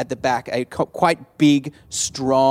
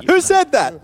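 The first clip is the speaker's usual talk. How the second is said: crab voice; 13 semitones higher, 5 dB louder than usual. Acted. DM voicing crab, high.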